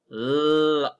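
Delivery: Log stretched into separate sounds, l, o, g; sounded out. Shown as a demonstration. Teacher to class, sounding out Log sound by sound. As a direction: break Log apart into its letter sounds. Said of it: "Let's sound it out again".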